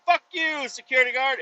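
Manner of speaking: high-pitched retold insult; playful, high re-enacted taunt; mock defiance.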